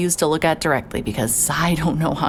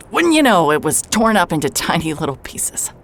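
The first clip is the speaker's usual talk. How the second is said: a sharp, high, louder bitter jab; bitter sarcasm; 4 semitones higher, 5 dB louder than usual. Acted. Telling the doctor how it fell apart, bitterly sarcastic. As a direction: spit out the irony.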